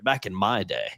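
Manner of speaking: lightly voiced old man reminiscing. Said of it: "sounding like an old man".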